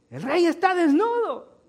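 put-on high, loud cry of a child; child's outcry. A child calls out to the parading king, high and loud. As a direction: blurt it out like a shocked child. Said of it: "cuando un niño dice".

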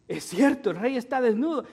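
crowd agreeing. Retold or imitated. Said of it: "y ven ellos y".

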